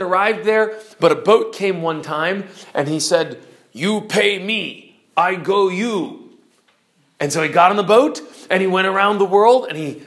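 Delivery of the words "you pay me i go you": slow, halting broken English of an island harpooneer. Acted. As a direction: spell out each word like a man new to English. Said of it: "learned to speak broken English".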